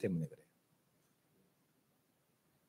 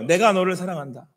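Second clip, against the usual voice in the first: steady, tender declaration; calm loving assurance; God speaking gently. Acted. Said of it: "똑같이 말씀하시는 거예요".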